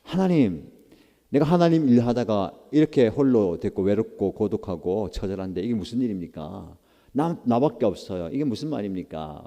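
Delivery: grumbling prayer, aggrieved and put-upon; complaining. Shown as a demonstration. Elijah grumbling to God, complaining tone. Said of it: "불평 섞인 말로 한다면".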